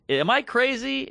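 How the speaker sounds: high-pitched mock German accent; slow, high German-accented question. Old German man asking a woman, mock German accent. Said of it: "this is all in a German accent".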